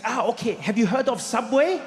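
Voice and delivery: a hint of a chummy German accent; light German accent. German friend suggesting a traditional meal, light German accent. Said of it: "He's like".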